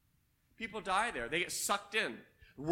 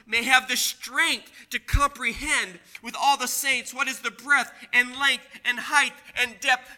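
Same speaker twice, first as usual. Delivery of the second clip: scripture reading; 4 dB louder than usual. Acted.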